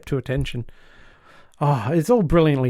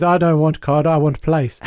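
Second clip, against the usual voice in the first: German captain; 2 semitones higher, 4 dB louder than usual. Acted. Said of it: "the German captain interrupts Walker".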